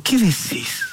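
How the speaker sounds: high, mild tearful disbelief; a hint of a crying mother's astonished question; mother through tears. Mother to her son, lightly voiced teary disbelief. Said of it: "la mamá entre lágrimas le dijo".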